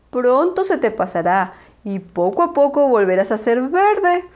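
put-on a gentle old owl, puzzled. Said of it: "le respondió don Ramón".

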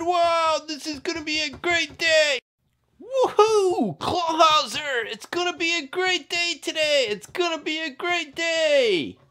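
cheery bunny cop. Acted. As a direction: cheer through the morning.

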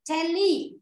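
"Tele" as TEH-lee; corrected vowel. Shown as a demonstration. Teacher corrects the student's reading, "Tele" as TEH-lee. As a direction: say "Tele" with an ee in the second syllable. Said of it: "Hoặc lẹ".

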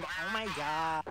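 slow drawn-out American "Oh my god"; American valley girl. Retold or imitated. Mocking the first of three American accents. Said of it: "three American accents".

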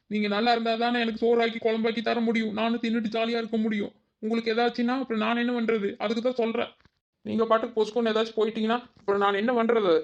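a touch of tearful pleading; worried daughter-in-law pleading, pitch creeping up; close to tears. Acted. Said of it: "எனக்கு அழுகாட்சியா வருது அத்தை".

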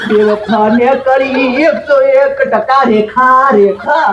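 slow, sing-song wail of heartbreak; mock weeping. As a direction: draw the words out in a hammed-up lament. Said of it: "પેલો કેમ રોઈ રહ્યો હો". (રડતા અવાજે નાટકીય વિલાપ)

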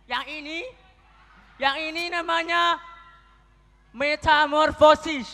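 lightly voiced teacher explaining a term carefully; imitating Pak Ansori. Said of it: "Ngomongnya Pak Ansori".

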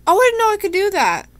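high, loud burst of surprise; surprised realization. Real, not acted. Player discovers an unexpected option in the game, surprised.

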